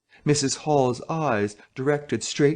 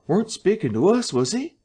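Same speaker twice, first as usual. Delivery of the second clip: puzzled listener; 8 semitones higher than usual. Acted. Listener at the door.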